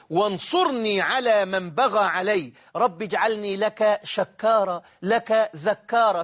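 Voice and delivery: measured petitions, slowing into long vowels; supplication recitation. Acted. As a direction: recite the du'a phrase by phrase. Recites the supplication once more. (دعاء مرتّل بهدوء وتأنٍّ)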